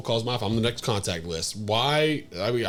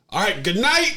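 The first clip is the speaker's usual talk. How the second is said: higher, louder sign-off; imitated child's goodnight; 9 semitones higher, 5 dB louder than usual. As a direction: call it out like a kid. Imitating child's good night.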